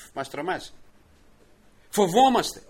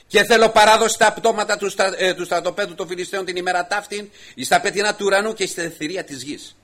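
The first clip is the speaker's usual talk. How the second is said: solemn loud vow; 7 semitones higher, 8 dB louder than usual. Acted. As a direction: weigh each word like a verdict. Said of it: "Τέταρτος λόγος".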